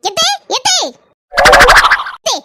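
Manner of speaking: loud, very slow stretched call; long stretched shout; drawn-out call. Acted. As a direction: call out across the house. Calling mother-in-law urgently.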